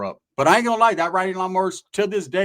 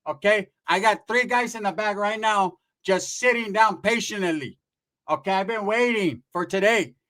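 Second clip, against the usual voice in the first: bossy, fed-up aunt; 4 semitones higher than usual. Retold or imitated. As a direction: lay down the law to an unwanted visitor. Storyteller plays the aunt at the door.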